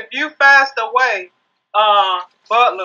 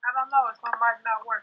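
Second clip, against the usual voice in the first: far away; 10 dB quieter than usual. Real, not acted. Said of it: "Why you sound so far away?".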